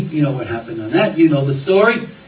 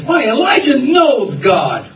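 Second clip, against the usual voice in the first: high, drawn-out preacher's cry; rousing, stretched-out pulpit shout; emphatic exclamation; 9 semitones higher, 4 dB louder, slower than usual. Real, not acted. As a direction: proclaim it slowly with soaring pitch. Preacher exclaims the reason triumphantly.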